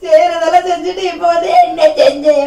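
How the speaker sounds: loud angry retort; wife shouting back at her husband in a quarrel. Acted. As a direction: throw the question back at him in a shout.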